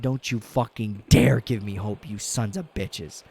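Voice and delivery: mock yell at the team; retold scream. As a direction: shout it at the TV again, hammed up. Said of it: "I said".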